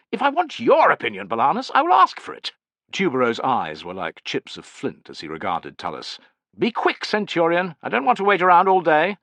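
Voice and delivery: high, loud officer's voice; haughty young commander. A narrator's reading.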